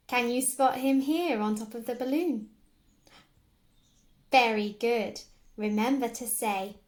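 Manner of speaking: loud, bubbly praise; excited very good. Acted. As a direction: cheer like a kids' host. Praising child finding Andy.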